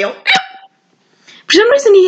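hammed-up Texas accent like a cartoon monster; Texan cartoon voice. Shown as a demonstration. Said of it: "If you sound like this".

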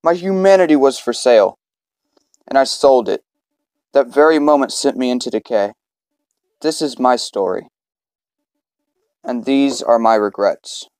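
low, measured reading of a confession; dramatic story narration. Acted. Game player reading the opening confession aloud, in dramatic narration. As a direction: narrate it low, with weighty pauses.

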